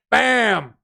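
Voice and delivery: a sudden burst of a shout; excited shout. Real, not acted. Streamer celebrating the new stream ruler with a shout. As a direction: slam it out like a victory call. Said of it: "I'm sorry if I screamed in your ears".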